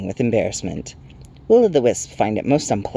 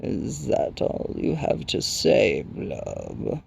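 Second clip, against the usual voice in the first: crackling Rock Chewer; 5 dB quieter, much slower than usual. A narrator's reading. Stone giant questioning the sprite, slow crackle. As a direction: drag it out in a crackle. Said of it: "Pion Crackshark crackled".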